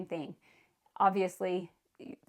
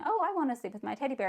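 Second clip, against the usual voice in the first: put-on excited child; 5 semitones higher, much faster than usual. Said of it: "they get all excited about it".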